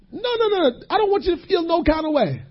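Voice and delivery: high, soft, near tears; tearful pleading. Acted. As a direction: plead gently through tears. Preacher moved, pleading voice.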